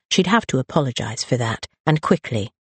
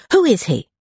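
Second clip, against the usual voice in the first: louder, insistent question; demanding; 8 semitones higher, 4 dB louder than usual. Acted. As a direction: demand an answer. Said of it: "Rosalind demanded".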